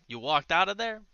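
you left her alone in there?; incredulous challenge. Acted. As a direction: call him out in disbelief. Detective confronting guard who left.

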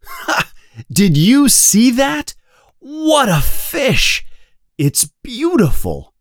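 high, thrilled exclamations; delighted. A narrator's reading. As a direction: burst out with joy, marveling. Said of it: "He is very happy".

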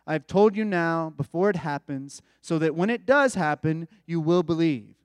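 measured, earnest reading of the text; scripture reading. Acted. Reads scripture passage aloud.

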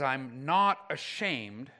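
slow, with weight on "not"; emphatic negation. Retold or imitated. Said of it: "it's making it more emphatic".

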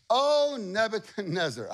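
mock him sweetly; sarcastic. Three men answering the king sarcastically. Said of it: "This is a sarcastic moment".

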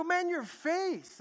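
high, slow, amazed student voice. Retold or imitated. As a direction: gawk at him, drawing out the words. Students stare at his changed face.

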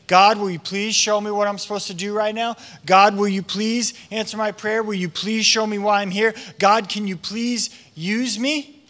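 mild pleading, stretched at the end; praying. Acted. Saul asking God to use him, mildly pleading prayer. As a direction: plead with God, lightly acted. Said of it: "A decade of praying".

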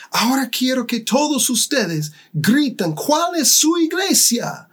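high, announcer-style call to the crowd; organizer on the mic. Retold or imitated. Organizer addressing the stadium crowd, calling out high. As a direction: rouse the stadium from the stage. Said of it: "dijo en el micrófono".

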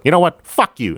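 woman walking off on the cop, high mock shout; angry woman's voice. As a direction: throw it at him like a retort.

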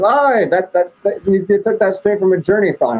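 put-on high voice, teasing quote; Adam. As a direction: mimic a pal calling out a rip-off. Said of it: "this guy Adam that I know says".

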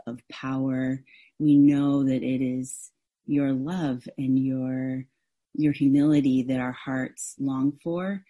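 hushed, pleading prayer; spoken prayer. Acted. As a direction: pray it aloud for the church. Leads the congregation in prayer.

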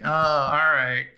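retold reluctant agreement; mock grudging assent. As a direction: give in grudgingly, imitating an annoyed man. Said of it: "he's all mad at him".

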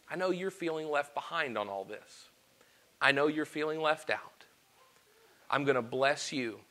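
merciful Jesus. Retold or imitated. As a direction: speak it softly like a patient, loving friend. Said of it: "in his mercy, in his love, and in his patience, says".

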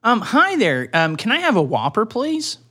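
lightly acted polite customer, lilting up; polite caller. Caller ordering a Whopper, lightly acted politeness. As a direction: ask sweetly, rising high on the last word.

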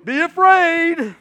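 high, loud, spooky mock threat; mock-spooky soldiers taunting; mocking scary taunt. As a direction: ham up a scary boogeyman. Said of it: "everybody else is going".

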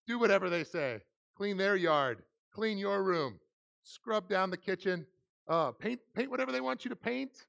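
lightly played rallying announcement; lightly acted youth leader. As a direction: announce the chores to the teens with gusto. Acts out assigning teens their service project.

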